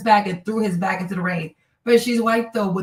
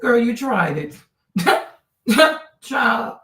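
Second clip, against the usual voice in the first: loud laughing call-out; 3 semitones higher, 3 dB louder, slower than usual. Real, not acted. Calling out the woman, laughing.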